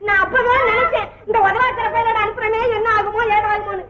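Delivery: wailing lament. Acted. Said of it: "ஏன் இப்படி கத்துற?".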